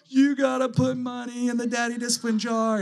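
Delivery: put-on high singsong kid voice; imitated kids. Kids telling dad to pay the jar, high mocking chant. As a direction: mimic gleeful children calling out dad.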